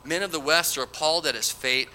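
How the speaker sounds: emphatic, declaimed Bible verse; scripture reading. Acted. Preacher reads Bildad condemning the wicked, emphatic scripture reading. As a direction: proclaim the verse to the congregation.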